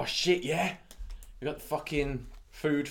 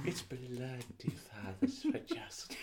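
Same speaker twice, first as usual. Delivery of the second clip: imitating Geordie; 10 dB quieter than usual. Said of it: "Trying to do Geordie".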